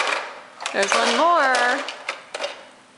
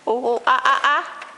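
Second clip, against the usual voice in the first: monkey noises. Retold or imitated. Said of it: "You sound like a monkey".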